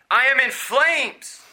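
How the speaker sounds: slow, high, loud anguished cry; cried out. Retold or imitated. Preacher voicing a dying atheist crying in torment. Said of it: "He cried".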